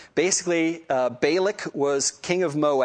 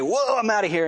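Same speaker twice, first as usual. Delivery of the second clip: mock alarm, pitched higher; startled donkey; 6 semitones higher than usual. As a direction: play a lightly voiced spooked donkey. Startled donkey flees in retold story.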